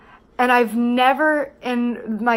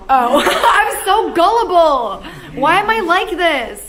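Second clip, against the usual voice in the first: laughing; 7 semitones higher, 5 dB louder than usual. Real, not acted. Laughs at being fooled.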